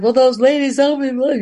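blurting it out, all worked up; excited. Retold or imitated. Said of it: "hyperventilating at this point".

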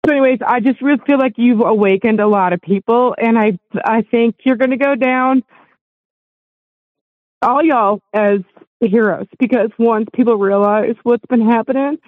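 real tears close, pushing through; getting emotional. Real, not acted. Caller thanking the hosts, welling up with emotion. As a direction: voice rising and choking up with emotion. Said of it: "I'm gonna get emotional".

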